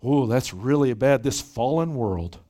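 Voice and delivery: slow, low, pious hand-wringing; mock pious sigh. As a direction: drag it out like a pious onlooker. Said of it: "kind of piously going".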